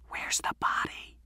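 hushed, secretive whisper; near whisper. A narrator's reading. Alex asks friends about the missing boy, whispering. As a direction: whisper it so nobody else hears. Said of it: "He turned back and almost whispered".

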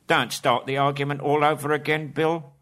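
troll telling Bill to stop arguing; irritated troll. A narrator's reading. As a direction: scold him like a cross troll. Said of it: "he said".

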